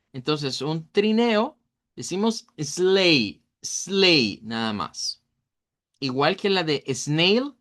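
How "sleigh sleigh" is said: "sleigh" as one syllable rhyming with way, GH silent; GH muda. Shown as a demonstration. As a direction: say "sleigh" slowly, S joined to L, ending on the vowel. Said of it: "La G H no suena". («sleigh» como «slei», con GH muda)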